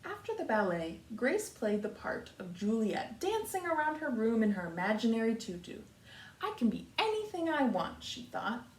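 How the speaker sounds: put-on lively read-aloud for children; story reading. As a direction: read the picture book to the class. Teacher reads picture book aloud.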